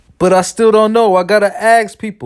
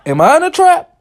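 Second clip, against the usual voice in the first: panicky; 13 semitones higher, 4 dB louder than usual. Retold or imitated. Panicked realization.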